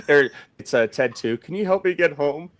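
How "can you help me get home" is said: higher-pitched quote through laughter; laughing impression of someone asking for help; mock plea. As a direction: imitate a helpless plea, amused. Mimicking a film line, cracking up.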